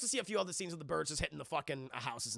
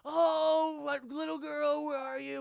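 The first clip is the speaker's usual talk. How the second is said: put-on high voice calling out to the girl; high mock call; 9 semitones higher, 4 dB louder, slower than usual. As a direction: call out high, searching for her.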